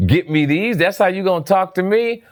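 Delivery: mock disbelief, pitched well up; sarcastic, high, incredulous; facetious. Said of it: "I was being facetious about".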